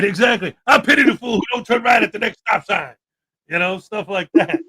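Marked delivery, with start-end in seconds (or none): 0.7-2.9 Mister T impression. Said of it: "program my A I to be Mister T".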